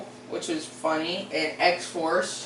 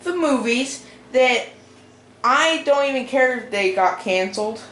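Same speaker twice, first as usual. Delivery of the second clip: higher, louder video-opening voice; 5 semitones higher, 4 dB louder than usual. Real, not acted. Vlogger greeting viewers and introducing canceled movies, high voice. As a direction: pitch it up high without meaning to. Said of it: "my voice is high".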